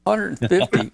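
breathless, winded; out of breath. Real, not acted. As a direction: gasp it out, winded. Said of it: "I'm out of breath".

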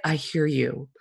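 quietly sympathetic; gentle, nice. Retold or imitated. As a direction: imitate a kindly therapist, hushed. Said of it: "He is so nice".

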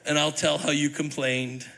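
playful gloat with a laugh at the end; mock gloating Moses. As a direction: tease like a petty author getting even. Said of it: "He's like".

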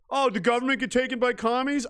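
high mock gasp, then shrug it off; lightly voiced fake surprise; sarcastic fake alarm; mock boredom.

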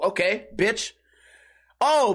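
usual speaking voice

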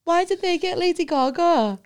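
a put-out friend, half-hammed; mock indignant friend. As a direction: friend moaning about her name. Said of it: "she was like".

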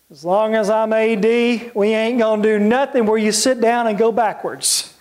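slow, lightly voiced Southern coach drawl; Bear Bryant throaty drawl. Coach answering an alumnus about rowing, in a slow mock drawl. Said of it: "he said in his throaty drawl".

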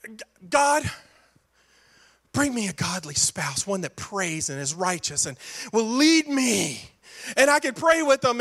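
mock a churchy single praying for a spouse; a hint of a hushed prayer; pious prayer. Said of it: "it's like somebody saying".

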